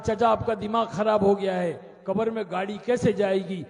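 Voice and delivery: half-acted irritation; retold angry retort. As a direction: snap back at the old man in mock anger. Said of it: "غصے میں تھا".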